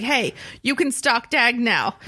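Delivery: lisping through aligners; words blurred by mouth retainers. Retold or imitated. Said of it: "I was like".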